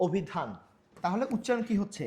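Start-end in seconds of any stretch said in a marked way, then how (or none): 0.1-0.5 অভিধান repeated with a rounded "o" start; অভিধান with অ sounded as ও; closed initial O. Shown as a demonstration. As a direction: say অভিধান as "obhidhan". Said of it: "ও দিয়ে হচ্ছে".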